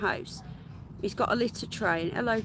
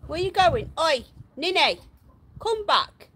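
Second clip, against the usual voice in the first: calling out; 6 semitones higher, 5 dB louder than usual. Real, not acted. Calling a guinea pig back.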